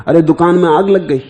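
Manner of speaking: urgent fire alarm. Acted. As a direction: break sudden news of a fire. Acting out shop fire alarm. (घबराहट भरी आग की पुकार)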